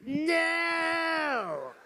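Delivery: loud, high scream of "No!"; screaming boss. Retold or imitated. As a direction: shout it from the top window, banging on the glass.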